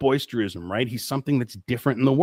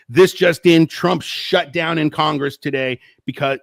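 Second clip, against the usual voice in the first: louder breathless headline opener; mock excited anchor, slower after the opener; mock excited newsman; 2 semitones higher, 3 dB louder, slower than usual. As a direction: hype the breaking news. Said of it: "gets excited over the headlines".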